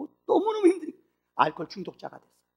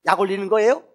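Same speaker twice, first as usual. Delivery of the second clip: much higher and louder, spitting fury; venomous retort; 10 semitones higher, 12 dB louder than usual. Acted. Sick mother lashes out at the visiting pastor, venomous yelling. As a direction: hurl each line at him like venom. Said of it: "독설만 품는 거예요".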